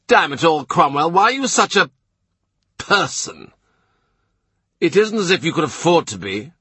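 gruff duke. A narrator's reading. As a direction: play the proud, impatient duke. Duke bursts out.

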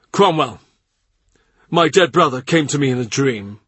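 a lightly voiced uneasy monarch; the king.

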